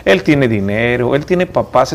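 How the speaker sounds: slow, mocking inner voice picking at you; a slow put-down from the little voice in your head; inner doubting voice. Host voicing the listener's doubting inner voice, slow and mocking. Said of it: "esa vocecita".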